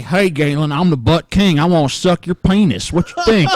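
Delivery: lightly hammed-up mocking impersonation; Brett Keane. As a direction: put on a crude come-on as a joke. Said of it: "pretend like I'm Brett Keane".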